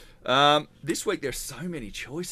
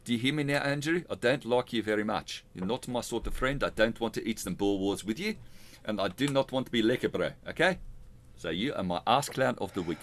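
lightly put-on South African accent; mock South African accent, said straight to the target; bad South African accent. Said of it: "bad South African accent".

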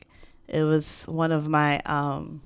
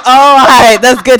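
imitating a kind stranger, louder than usual; voicing the guy; 7 semitones higher, 17 dB louder than usual. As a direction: play the concerned dude, reassured. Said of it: "And he's like".

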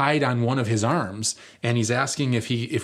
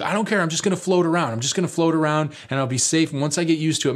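higher-pitched mock defiance; imitated stubborn friend; 5 semitones higher, faster than usual. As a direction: lightly mimic a kid who won't be talked out of it. Imitates stubborn friend defending himself.

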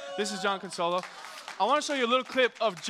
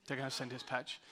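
low, quiet, resigned answer; soft, lowered imitation of a guard; deadpan reply; 6 semitones lower, 10 dB quieter than usual. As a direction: drop it down like breaking bad news.

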